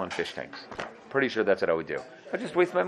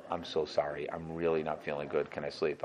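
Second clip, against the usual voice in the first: sorry plea; 7 semitones lower, 11 dB quieter than usual. Retold or imitated. Sick student apologizing softly.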